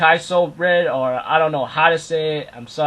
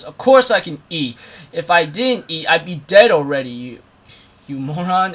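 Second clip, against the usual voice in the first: higher, louder mock indignation; indignant retort; 3 semitones higher, 7 dB louder than usual. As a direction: fire back as an offended character. Character retorts indignantly, retold.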